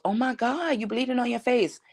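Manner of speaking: lightly voiced lady in shock; shocked bystander lady. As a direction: gasp it out like a stranger seeing blood. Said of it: "the lady goes".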